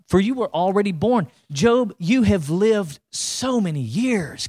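acted sarcasm, stretching the words; sarcastic. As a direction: lay on the irony as God needling Job. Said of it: "Can you hear the sarcasm".

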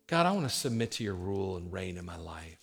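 low, soft praying voice; earnest prayer. Shown as a demonstration. Praying to God to submit to his rule, low and soft. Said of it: "That's this kind of prayer".

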